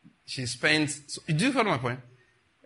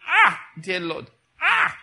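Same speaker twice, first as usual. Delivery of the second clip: letting it out in prayer; 3 semitones higher, 6 dB louder, much slower than usual. Shown as a demonstration. Preacher shows the church how to cry to God: slow, loud anguish. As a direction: pour out the pain before God. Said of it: "yeah, you can let it out".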